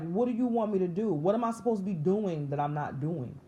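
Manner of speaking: frustrated outburst. Retold or imitated. Speaker retells demanding answers from God, frustrated and pleading. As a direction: replay an anguished demand for answers. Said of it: "expressing my frustration and my anger".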